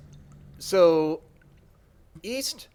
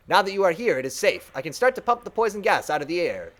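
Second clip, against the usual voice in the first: servant mind; 2 semitones higher than usual. Acted.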